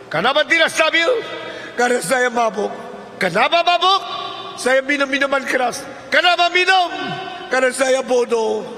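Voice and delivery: high, loud questions and pleading answers; heated interrogation. Acted. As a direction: act out a rising cross-examination. Escalating acted interrogation and confession.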